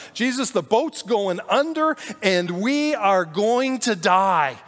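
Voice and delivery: mock panic. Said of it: "full panic mode".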